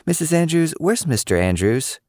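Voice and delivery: put-on high, eager little girl; chirpy kid asking a grown-up; girlish voice. A narrator's reading. Cicely asking Lily's mom, high and girlish.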